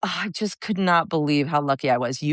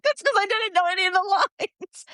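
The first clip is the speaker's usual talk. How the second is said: high-pitched confession. Retold or imitated. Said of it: "I was like".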